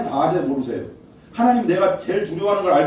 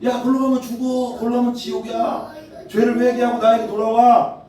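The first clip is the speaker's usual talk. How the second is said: Jesus calling out; 7 semitones higher than usual. Acted. Jesus calling a man who keeps walking, pleading high call. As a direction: shout after him to turn back. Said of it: "계속 부르는 거야".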